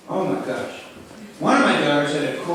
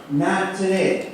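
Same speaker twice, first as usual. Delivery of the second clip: slow emphatic; much slower than usual. Acted. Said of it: "Very strong".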